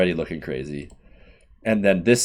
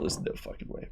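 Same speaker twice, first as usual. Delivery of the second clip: hushed disbelief; 16 dB quieter than usual. Real, not acted. Disbelief at Canada-Portugal matchup.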